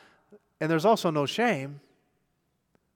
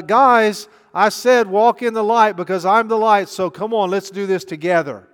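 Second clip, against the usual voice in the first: louder and higher, rallying the guys; Jesus urging loudly; 4 semitones higher, 8 dB louder than usual. Acted. Jesus calls his friends to walk together, loud and eager. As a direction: call them in like a coach.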